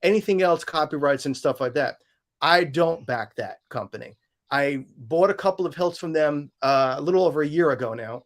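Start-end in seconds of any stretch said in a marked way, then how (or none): 2.4-8.2 drowsy, sleepy voice; half asleep. Real, not acted. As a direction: talk like you're barely awake. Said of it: "Sorry, I'm, like, half asleep here".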